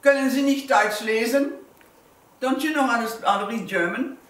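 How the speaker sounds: retold bold retort in German; loud defiant reply. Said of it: "you speak it louder than they do".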